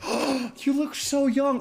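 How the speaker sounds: high, slow gushing compliment; gushing stripper. Retold or imitated. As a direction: coo it like a flattering dancer. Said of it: "And she's like, gasps".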